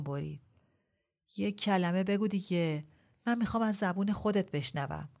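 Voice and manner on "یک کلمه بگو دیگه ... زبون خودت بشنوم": pressing, urgent demand; hurried insistence. Acted. Ebrahim interrupts Shahrbanu, hurried and insistent. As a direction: cut her off and push hard. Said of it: "با لحنی شتاب زده و پر ابرام".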